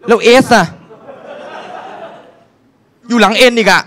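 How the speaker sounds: comic disbelief; exasperated. Real, not acted. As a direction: rant at the forgotten letter. Exasperated about missing letter S.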